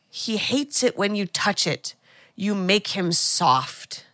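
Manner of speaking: slow, deliberate delivery of a possessed line; measured mock-creepy quote; possessed taunt. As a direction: draw it out ominously, understated. Voicing possessed Daniel to Jade.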